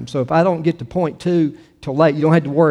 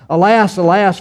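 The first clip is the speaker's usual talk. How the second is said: raised, emphatic cry of lament; crying aloud; 4 semitones higher, 6 dB louder than usual. A narrator's reading. Seafarers weeping for the great city, read as a raised cry. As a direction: call out the lament, mildly acted. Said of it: "crying aloud".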